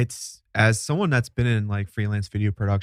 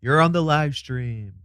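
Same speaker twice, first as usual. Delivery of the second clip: slow, higher-pitched notice; mock announcement; 5 semitones higher, 4 dB louder, slower than usual. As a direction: announce it slowly, drawn out. Playing the filming notice aloud.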